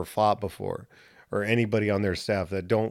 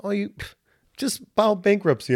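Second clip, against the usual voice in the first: higher, offhand reassuring dad; breezy dad; 5 semitones higher than usual. Retold or imitated. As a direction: shrug it off like a carefree father. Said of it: "And he's like".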